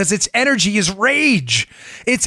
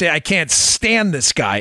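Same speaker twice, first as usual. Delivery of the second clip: normal talking voice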